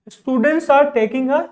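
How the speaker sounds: every word drawn out, very slow; very slow dictation. Shown as a demonstration. Teacher dictating an example sentence to students, very slow. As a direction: spell it out slowly for learners.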